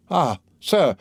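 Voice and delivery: a high, startled cry of dismay; alarmed exclamation. A narrator's reading. Wife stunned by her husband's accusation, high alarmed exclamation. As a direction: gasp it out, caught off guard. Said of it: "exclaimed Madame de Villefort".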